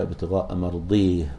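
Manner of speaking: bend مرضيه toward e and stop on h; مرضيه said with imala and a final h; imala pause. Shown as a demonstration. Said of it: "بال-، بالإمالة".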